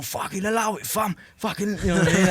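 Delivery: mock geezer voice, pitched high; moody geezer voice. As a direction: put on the big geezer next door telling them to pack it in. Moody neighbour shouting through wall.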